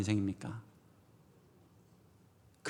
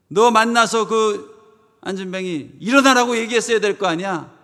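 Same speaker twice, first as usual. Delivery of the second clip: raised, loud mock scolding; high, exasperated telling-off; God scolding; 6 semitones higher, 7 dB louder than usual. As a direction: take a negligent servant to task. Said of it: "하나님한테 가서 꾸중받는 거예요".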